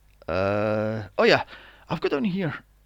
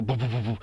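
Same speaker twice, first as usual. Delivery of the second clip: quick vocal heartbeat noise; imitated racing heartbeat; 5 semitones lower, faster than usual. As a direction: mimic a pounding heart with rapid booms. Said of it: "obviously your heart's gotta go".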